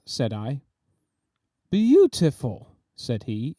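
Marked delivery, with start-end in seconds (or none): 1.7-2.8 slow, higher, rapt praise; entranced. A narrator's reading. Artist entranced by the nose, rapt. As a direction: linger on it, enchanted.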